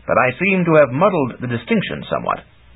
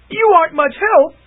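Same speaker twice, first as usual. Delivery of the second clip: high, louder peeved complaint; complaining; 5 dB louder than usual. Acted. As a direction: snipe at him in annoyance. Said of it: "she complained".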